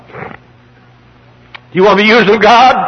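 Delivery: slow, high, drawn-out pulpit cry; preacher's shouted challenge. Real, not acted. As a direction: throw the question out at the congregation, high and slow. Same question repeated at full force.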